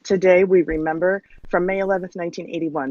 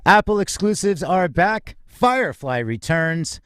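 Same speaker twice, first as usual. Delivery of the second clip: polished radio-host opening, measured pace; upbeat host welcoming listeners to the hour; show announcer read. Acted. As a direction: open the show like a broadcast announcer.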